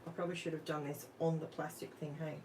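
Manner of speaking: ordinary talk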